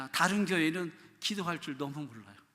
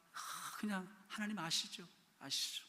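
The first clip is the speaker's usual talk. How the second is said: much softer, slow trailing plea; fading to quiet; 10 dB quieter than usual. Shown as a demonstration. Pastor showing prayer fading out, decrescendo to soft. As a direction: let it die away. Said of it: "디크레센도예요".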